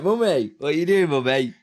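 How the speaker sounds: voicing his son calling for Mummy; voicing the baby. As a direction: speak for the baby, whining for Mummy. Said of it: "You were like".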